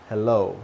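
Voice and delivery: HELLO ending in a rounded "oh"; HELLO with rounded lips. Shown as a demonstration. Teacher showing lip shape, HELLO with rounded ending. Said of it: "You see how I rounded my lips?".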